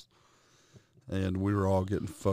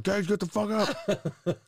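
higher, slow, laughing plea; half-laugh urging him up; laughing at his passed-out friend to get up; laughing urgent plea; 12 semitones higher, slower than usual. Retold or imitated.

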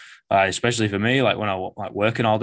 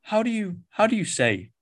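higher, gentle imitation of a polite client; soft-spoken English major; 12 semitones higher than usual. Client asking his coach about letters, soft-spoken. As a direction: lightly mimic a lovely soft-spoken bloke. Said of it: "super soft-spoken, super lovely bloke".

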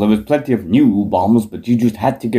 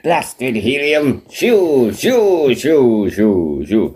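high, squeaky helium Bob shooing; playful high helium impression; mock helium-high voice; 3 semitones higher, much slower than usual. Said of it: "his voice went high pitched".

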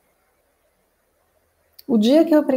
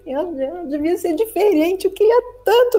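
higher, tearful whine of a self-pitying ego; whiny self-pity; 6 semitones higher than usual. Acted. The ego telling your conscience something is wrong, tearful whine. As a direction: whimper it like someone sure they're broken.

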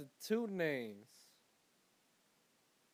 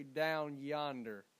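quoted local phrase; 3 semitones lower, much slower than usual. Retold or imitated. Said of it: "I heard somebody say".

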